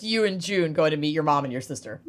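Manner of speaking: quick, hushed whisper. Real, not acted. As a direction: whisper it fast and secretive. Suddenly whispering a question.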